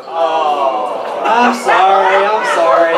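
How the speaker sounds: loud, slow, hammed-up apology; hammy sorry sorry; mock apology. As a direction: blurt out a big fake apology. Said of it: "Very sorry".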